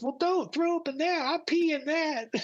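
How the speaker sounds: very high, alarmed pilot voice; pilot impression. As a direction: warn him in the pilot's high-pitched voice. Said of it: "that's how he talked".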